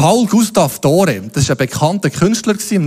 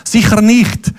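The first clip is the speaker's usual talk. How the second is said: lightly voiced border guard; 5 semitones higher than usual. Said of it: "Der Alessandro sagt".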